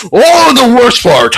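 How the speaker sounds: slow, high, theatrical wind-up; milk the reveal like a showman; drawn-out dramatic tease; dramatic buildup. Acted.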